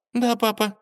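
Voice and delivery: high, curt reply; clipped dismissal to her father; curt princess. Acted. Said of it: "коротко сказала". (коротко, сухо)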